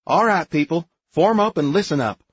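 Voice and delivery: loud, high command to form up; calling to attention. A narrator's reading. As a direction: bark the squad to attention. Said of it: "Brandy calling the squad to attention".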